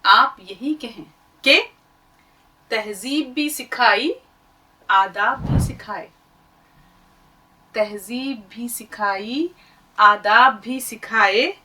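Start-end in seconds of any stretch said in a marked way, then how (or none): 2.7-6.1 poetic recitation. Shown as a demonstration. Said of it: "बकौल शायर". 7.8-11.5 poetic recitation. Shown as a demonstration. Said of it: "बकौल शायर".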